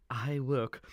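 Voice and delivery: slow, soft smug whisper; villain whisper. Acted. Butler gloating over his smart scheme, a slow smug whisper. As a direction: breathe it like a secret boast.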